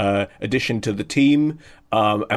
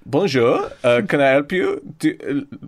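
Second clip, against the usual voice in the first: French bouncer. Acted. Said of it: "from the bouncer's perspective".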